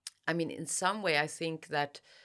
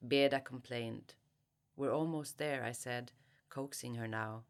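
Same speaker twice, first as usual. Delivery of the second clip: calm, measured literary reading; story reading. Acted. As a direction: read the novel's opening aloud. Reads opening section aloud.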